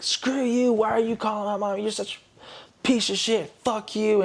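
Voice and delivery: high-pitched mock tirade; imitated angry outburst. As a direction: act out a drunk girlfriend lashing out, pitched well up. Girlfriend's drunken outburst, acted out.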